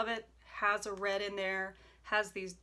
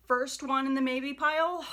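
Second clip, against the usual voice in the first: louder, delighted announcement; excited; 5 semitones higher, 8 dB louder than usual. Real, not acted. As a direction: proclaim it with glee. Gleeful about first maybe.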